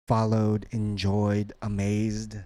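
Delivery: "followed, enjoyed, amazed" each ending on a voiced d; final D sound. Shown as a demonstration. Teacher drilling a word list, final D endings. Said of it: "and D sound".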